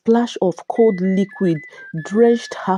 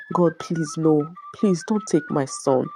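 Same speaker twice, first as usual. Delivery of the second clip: choked cry; 3 dB quieter than usual. Acted. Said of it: "let out a choked cry".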